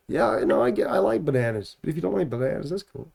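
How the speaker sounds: breezy put-on American accent; lightly American, easygoing. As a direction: shrug it off in mock American. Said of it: "talking back to her in American".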